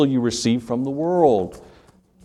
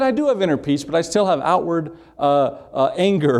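higher-pitched retold cartoon protest; lightly acted, defensive comeback; Lucy; 3 semitones higher than usual. Preacher retelling Lucy's answer to Charlie Brown, mock protesting. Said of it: "She said".

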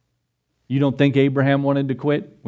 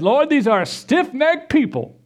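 exasperated Moses; 11 semitones higher than usual. Retold or imitated. Moses complaining to God.

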